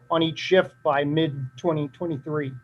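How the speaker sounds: dry voice giving out; losing voice. Real, not acted. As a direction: talk through a drying throat. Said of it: "Sorry, losing my voice here, drying up".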